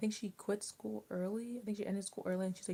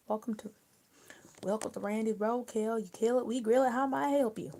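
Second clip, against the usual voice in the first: hammed-up diner greeter; 3 semitones higher, 5 dB louder than usual. Playing a roadkill diner host.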